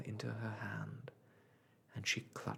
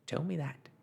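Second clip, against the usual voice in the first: high, taunting challenge; triumphant starling taunt; jeering; 6 semitones higher than usual. A narrator's reading. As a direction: throw it out as a gloating jeer. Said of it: "he jeered".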